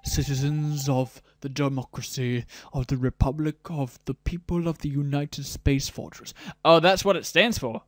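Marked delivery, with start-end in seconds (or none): 0.0-6.3 lightly robotic official announcement. Acted. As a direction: read it like a robot herald. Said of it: "I'm just gonna do a robot voice".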